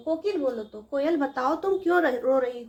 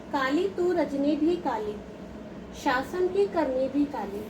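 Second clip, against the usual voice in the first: slow poem recitation; slower than usual. Shown as a demonstration. Teacher recites poem lines.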